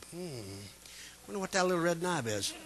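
soft musing under the breath; a quiet mumbled wonder. Retold or imitated. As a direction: hush it, curious about the knob. Puzzling over the shifter knob.

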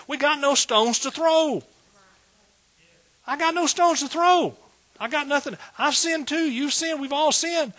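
high, loud preacher's climb; rising sermon fervor; fervent preaching. Acted. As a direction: preach it out, pleading with the church. Preaching at full force.

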